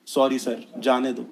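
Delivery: soft, slow meek plea; pleading softly. Retold or imitated. Caught teen pleading with the policeman, soft meek plea. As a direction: beg quietly like a caught kid. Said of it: "हम क्या बोलते हैं".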